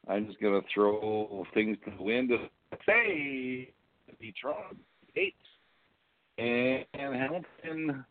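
broken, dropping-out mic audio; garbled words through a failing headset; glitching audio. Real, not acted. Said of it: "I didn't hear a thing you said".

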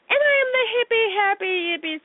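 high, bouncy self-intro; sing-song list of silly titles; giddy, gushing sing-song; playful, gushy. Acted.

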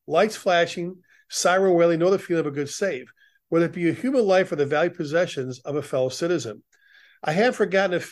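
measured, earnest reading of a poem; poem recitation. Acted. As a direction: firefighter reciting a memorial poem at a ceremony. Reads the retiree poem.

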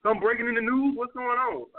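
dry mock curiosity, pitched a bit up; sarcastic jab at a woman on her phone. Shown as a demonstration. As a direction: tease her about the phone, deadpan. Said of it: "I just some sarcastic".

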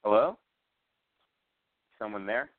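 put-on scared girl calling out. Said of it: "what she says".

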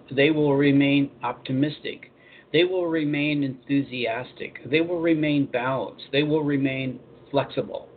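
slow, measured quote reading. Acted. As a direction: read each promise deliberately, pausing between sentences. Reads an Abraham quote aloud.

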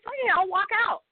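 high angry shout, walking out; screaming. Retold or imitated. Actress yelling at crew she quits, angry shout. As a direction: yell it like you're quitting on the spot. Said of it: "I was screaming at them".

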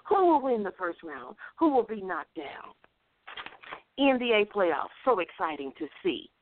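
rhythmic rhymed recital over music; spoken-word sports rhyme; poem recital. Acted. Reads her rhymed sports poem.

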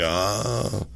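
slow, badly faked Chinese accent; botched Chinese accent. Man who hit the host retold, badly faked Chinese accent. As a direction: imitate someone ominously in a botched Chinese accent.

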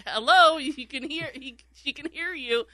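a hushed, high "are you serious"; incredulous. Retold or imitated. Coworkers aghast the host forgets his live microphone, mock disbelief. Coworkers reacting to host's blunder.

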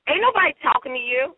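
a light Southern one-liner, quick and sassy; Southern accent. Retold or imitated. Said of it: "one of those nice one-liners with, like, the Southern accent".

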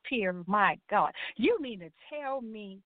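slow, drawn-out mock shock from mom; a hint of a stunned mother; mom's shocked disbelief. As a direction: play the stunned mother, dragging it out. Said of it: "She said".

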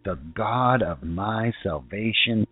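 slow, solemn Bible reading; scripture reading. Acted. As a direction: read the psalm slowly, like a prayer. Reads Psalm twenty-five aloud.

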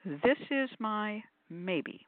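slow demo. Shown as a demonstration. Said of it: "And I say".

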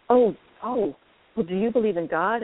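put-on mildly excited little old lady, lifted on "oh, oh"; a touch of eager discovery; retold excitement. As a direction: lightly imitate her sudden eagerness. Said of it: "she kind of got excited".

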